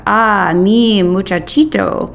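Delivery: tender. Retold or imitated. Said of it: "Papa saves his sweetness for the babies".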